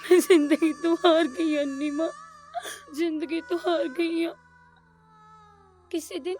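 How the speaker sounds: tearful, voice catching on each phrase; crying in despair. Acted. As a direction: sob out that she has given up. Girl despairs to blind mother. (ਰੋਂਦੀ ਹੋਈ ਨਿਰਾਸ਼ ਆਵਾਜ਼)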